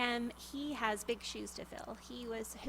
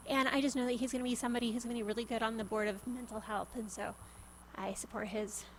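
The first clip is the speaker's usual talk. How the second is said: out of breath. Real, not acted. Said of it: "I am out of breath".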